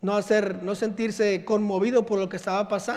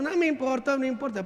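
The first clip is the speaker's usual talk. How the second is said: higher, curt brush-off; dismissive dad; 4 semitones higher than usual. Retold or imitated. Father dismissing daughter's sadness, curt. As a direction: wave it away. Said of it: "father dismissing".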